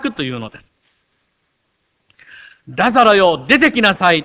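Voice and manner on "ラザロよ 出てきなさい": loud commanding call; ラザロを呼ぶ叫び. Retold or imitated. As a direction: call Lazarus out of the tomb. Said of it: "と叫ばれた主は". (ラザロを呼び出す大きな叫び声)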